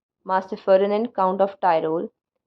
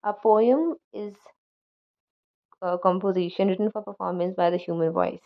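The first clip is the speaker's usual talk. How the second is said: scanned line, each stress marked; read with scansion. Shown as a demonstration. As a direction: lean on the stressed beats and pause at the bar. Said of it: "Adding such scansion marks will produce the following".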